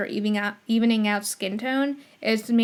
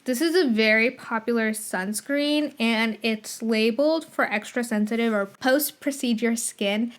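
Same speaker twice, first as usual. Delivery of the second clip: talking with a retainer in; slight lisp. Real, not acted. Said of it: "I have, like, a lisp of sorts".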